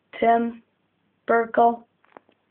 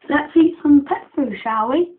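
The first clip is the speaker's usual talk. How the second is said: playful invitation; 5 semitones higher, 5 dB louder than usual. Pretend. Feeding the pet, playful.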